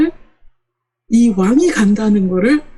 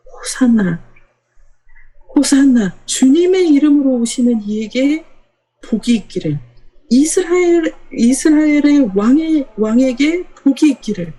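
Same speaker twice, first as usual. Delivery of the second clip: mild crowd acclamation; 5 semitones higher than usual. Retold or imitated. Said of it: "이렇게 외칩니다".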